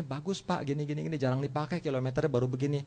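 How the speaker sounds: soft, unadorned seller's answer; sincere. Retold or imitated. Seller describes used motorbike to buyer by phone, sincere. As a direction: imitate an honest seller, quietly and plainly. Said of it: "dia berbicara dengan ujuk kata".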